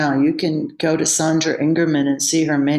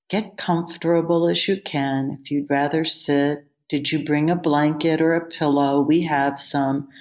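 soft-spoken teacher; 3 semitones lower than usual. Retold or imitated. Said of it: "soft-spoken man who says".

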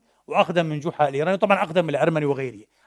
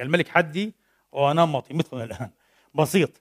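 ordinary talk

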